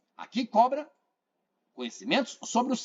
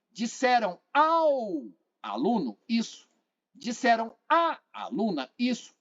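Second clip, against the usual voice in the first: slow demo; 3 semitones higher than usual. Shown as a demonstration. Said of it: "Substitua pelo masculino".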